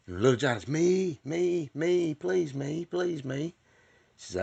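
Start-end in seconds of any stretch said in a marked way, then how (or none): 0.7-3.5 put-on high, pleading kid begging to be chosen; a kid straining to be picked, voice up high; eager kid pleading to be called on. Johnny begs again.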